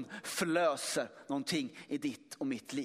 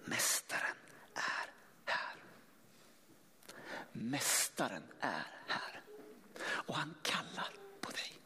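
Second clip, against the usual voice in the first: soft secret whisper to a sister; a sister whispering that the master has come; 4 semitones lower, 7 dB quieter than usual. Acted. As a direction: lean in and whisper the news. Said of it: "och så viskade hon".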